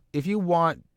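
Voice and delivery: starting a promo pitch, a bit up; rising promo start. Shown as a demonstration. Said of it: "what can I say".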